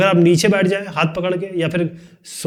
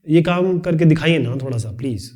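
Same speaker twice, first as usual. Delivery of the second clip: polite request. Shown as a demonstration. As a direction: ask nicely, pleading a little. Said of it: "ये अलग तरीका हो गया". (विनती करते हुए, नरमी से)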